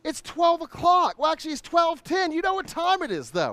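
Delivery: hype intro. Acted. Hosts' hype show opening.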